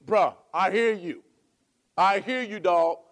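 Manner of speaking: loud casual buddy talk; easy friendly reassurance; casual slang. Retold or imitated. Friend to friend, casual loud. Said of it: "you go".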